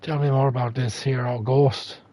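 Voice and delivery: put-on Irish accent. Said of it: "slip into a terrible Irish accent".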